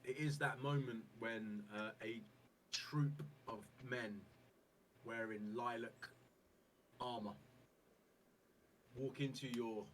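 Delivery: slow, measured scene setting; game master narration. Acted. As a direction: lay the scene out slowly, with pauses.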